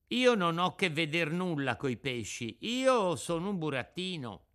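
high, emphatic puppet voice; indignant little puppet. Acted. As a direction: protest as a proud puppet.

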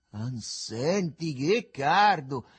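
loud, slow, stretched-out cry; shouted complaint. A narrator's reading. Begalo puffs and complains of the heat, shouting. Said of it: "gridò il Begalo soffiando".

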